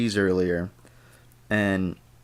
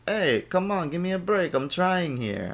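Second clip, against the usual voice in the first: higher, pleading mock husband voice; exasperated husband; 8 semitones higher than usual. Stuck with a broken car, the husband pleads with his nagging bride. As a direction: plead with her, half joking. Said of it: "I'm like".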